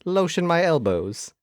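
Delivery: Bond villain. Retold or imitated. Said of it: "like a Bond villain".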